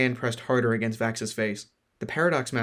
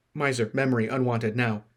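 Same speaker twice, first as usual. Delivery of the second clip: demanding. Acted. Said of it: "the Sentinel demanded".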